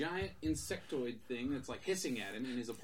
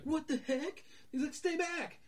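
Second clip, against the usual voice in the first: higher, startled cry at a monster; mock startled; 4 dB louder, slower than usual. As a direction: back away startled. Jake faces the monster.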